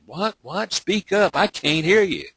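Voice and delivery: high-pitched, insistent phone questioning; mock straining to hear. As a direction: act out calling to an inaudible caller. Acting out straining to hear caller.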